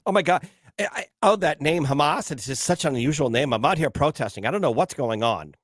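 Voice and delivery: lightly voiced clueless student; young protesters. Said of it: "that's what they sounded like".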